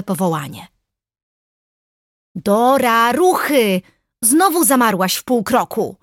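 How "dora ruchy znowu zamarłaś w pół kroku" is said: raised, louder impatient call; higher-pitched, exasperated prodding. A narrator's reading. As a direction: hurry a dawdling friend along. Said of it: "zniecierpliwiła się".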